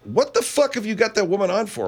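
high mock whine; lightly voiced complaining woman; imitating her. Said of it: "She's like".

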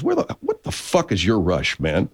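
slow, laughing through the words; sergeant's retort. Retold or imitated. Retelling the sergeant's blunt line to the colonel with a laugh. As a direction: chuckle out the disbelieving question. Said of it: "the sergeant says".

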